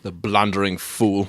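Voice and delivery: slow, bitter contempt. Acted. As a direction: let the scorn seep out. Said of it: "Holmes said bitterly".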